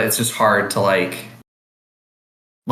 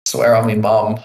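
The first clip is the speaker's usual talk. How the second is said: put-on Cockney accent. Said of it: "Cockney accent".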